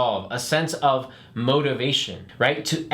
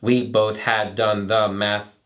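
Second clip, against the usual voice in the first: robot voice; 4 semitones lower than usual. Shown as a demonstration. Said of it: "break those up into sections".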